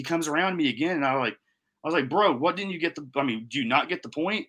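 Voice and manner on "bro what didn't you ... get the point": higher-pitched irritated challenge; retold exasperation. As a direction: act out losing patience with him. Retold quarrel with ukulele player.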